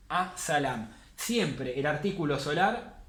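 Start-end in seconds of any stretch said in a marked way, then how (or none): 0.1-0.9 'A Salam' with a doubled s, no L; doubled first letter. Shown as a demonstration. Teacher repeats the example, doubled s in 'A Salam'. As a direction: lean on the s in 'A Salam'. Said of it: "la vamos a pronunciar doble".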